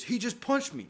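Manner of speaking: high, loud whining protest; the brother complaining to mom; whiny brother. Retold or imitated. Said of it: "He goes".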